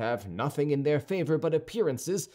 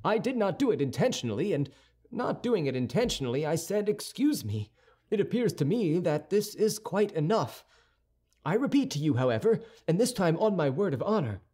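a touch of impatient youth pressing to leave; hasty young man; 6 semitones higher than usual. Acted. Young Gascon begging the musketeer to let go, lightly voiced. D'Artagnan pleads haste.

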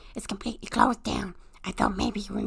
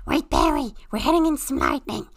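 alarmed warning; 4 semitones higher, 5 dB louder than usual. Acted. Storm alarm in cockpit.

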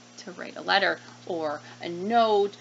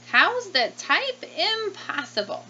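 can't believe it, stretch it out; disbelief; 10 semitones higher than usual. Acted. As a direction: farmer gasping in disbelief. Farmer disbelieving.

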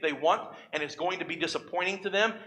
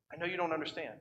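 gentle repeat; 10 dB quieter, faster than usual. Acted. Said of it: "here's the conversation God has with Habakkuk".

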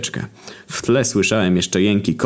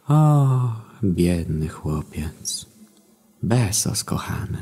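kobiecy głos; much slower than usual. A narrator's reading. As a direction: play a gentle woman over a tied boy. Kobiecy głos Magdy Gessler. (czuły kobiecy głos, lekko zagrany)

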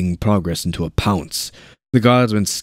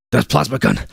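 urgent yell; 4 semitones higher, faster than usual. A narrator's reading. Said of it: "he yelled".

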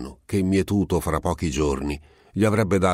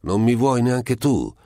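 plaintive; 8 semitones higher, 4 dB louder than usual. A narrator's reading. Simone pleads with Nazzaro.

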